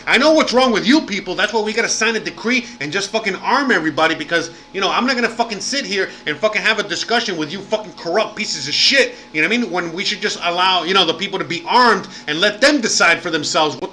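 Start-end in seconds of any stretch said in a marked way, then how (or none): 0.1-9.2 fed-up outburst. Retold or imitated. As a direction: spit it out like you're done arguing with corrupt people. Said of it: "he's like".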